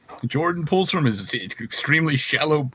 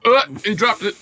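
excited; 10 semitones higher, 6 dB louder than usual. Pretend. Mock sports fumble call.

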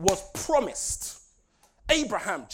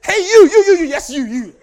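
calling out; 7 semitones higher, 15 dB louder than usual. Pretend. Calling out someone laughing.

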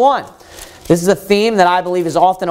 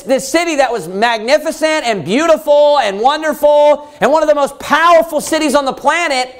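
higher, wondering how; preacher voicing the author, pitched up in amazement; amazed lament; 4 semitones higher than usual. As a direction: grieve in disbelief at the ruin. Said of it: "he's looking around in amazement".

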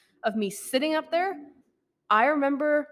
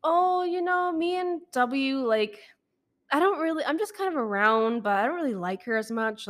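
imitating evasive guy; 4 semitones higher than usual. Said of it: "And he's like".

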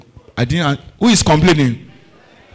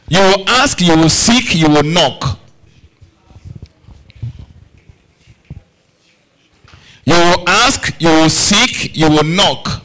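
emphatic declaration; 3 semitones higher, slower than usual. Real, not acted. Preacher chants scripture to congregation.

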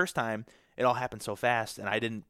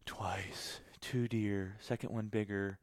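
hushed, breathless disbelief; stunned whisper; 7 dB quieter, much slower than usual. Retold or imitated. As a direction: whisper it like you can't believe it. Stunned inner voice after missing.

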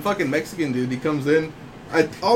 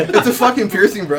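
higher, louder mock protest with laughter; exasperated retort; 5 semitones higher, 5 dB louder than usual. Clerk answers his boss about the nose ring, mock exasperation. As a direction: re-enact exasperation, half laughing.

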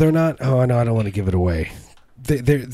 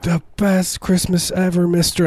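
put-on wholesome 1950s kid; 8 semitones higher than usual. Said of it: "It's like".

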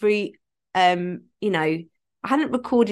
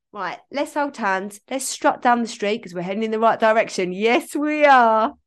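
mock cheerful skit; 2 semitones higher than usual. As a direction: play it like a cheery date with your feelings. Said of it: "Insert uncomfortable voice in that little skit".

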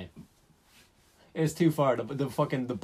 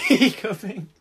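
mocking repeat; 8 semitones higher, 7 dB louder, much slower than usual. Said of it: "Your grammar gone a bit off the rails".

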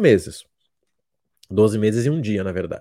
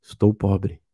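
demo plain admission; 6 semitones lower, slower than usual. Shown as a demonstration. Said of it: "Fala assim, ó".

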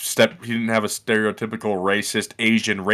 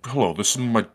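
Sir William; 3 semitones lower, 5 dB quieter, faster than usual. Acted. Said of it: "Sir William out there like".

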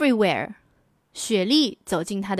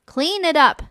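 mother's order; 5 semitones higher, 3 dB louder than usual. Acted. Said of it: "said the mother".

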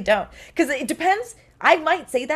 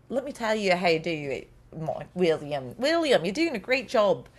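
attempted Australian accent; 2 semitones higher than usual. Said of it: "I'm not really great at Australian".

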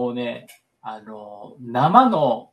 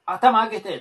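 怒鳴るセコンド; 8 semitones higher, 5 dB louder than usual. Retold or imitated. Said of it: "セコンドの人が結構なんかわーわー".

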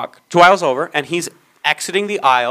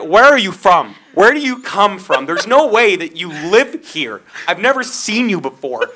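raised-pitch, hammed-up incredulous rant; exasperated disbelief; 3 semitones higher than usual. Worker looking at these two people, exasperated mock rant. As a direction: marvel at them in mock outrage.

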